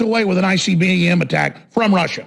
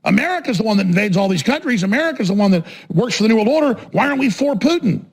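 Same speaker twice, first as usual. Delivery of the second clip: mimicking pro-Putin people; 3 semitones higher than usual. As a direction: argue it like an indignant supporter, imitated. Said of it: "And so people think".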